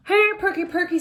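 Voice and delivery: high, loud call for the lost dog. A narrator's reading. Arthur calls his lost dog, high and loud. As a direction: call across the house for the dog.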